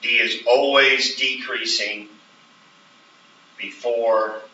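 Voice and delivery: slow, "always" stressed; emphasis on always. Shown as a demonstration. Teacher modelling the written argument, stressing "always". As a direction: press on "always" while dictating. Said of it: "the emphasis on the word always".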